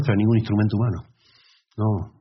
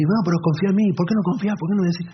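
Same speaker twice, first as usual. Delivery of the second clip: mock marital quarrel; 9 semitones higher, faster than usual. Discusión actuada de pareja.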